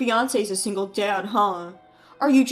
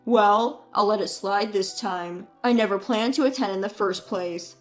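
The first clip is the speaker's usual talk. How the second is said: condescending and smug; mocking tone; 3 semitones lower than usual. Brother mocks his sister over the phone, smug. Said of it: "in a mocking tone".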